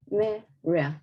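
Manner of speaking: the stressed part of "primarily" singled out, MAIR-uh; highlighted stress. Shown as a demonstration. Teacher marking the stressed syllable for students, highlighted stress. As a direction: break out the MAR of "primarily". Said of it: "I will highlight the stress here".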